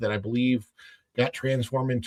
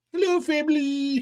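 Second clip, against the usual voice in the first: Swedish-style voice, very high. Imitating the guy who owned the shop in Frozen: imitating the Frozen shop owner. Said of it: "He did sound like Swedish chef".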